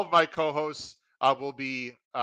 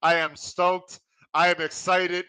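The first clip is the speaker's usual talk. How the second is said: higher, stoked podcast host; pumped, excited; 3 semitones higher, 3 dB louder than usual. Real, not acted. Host opening the Breeders' Cup show, pumped and excited. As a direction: let real excitement lift each declaration. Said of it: "If you can hear it in my voice".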